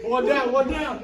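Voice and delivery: slow, loud call-out of a hit; man down shout. Real, not acted. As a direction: announce the kill to the team. Calling out hits in game.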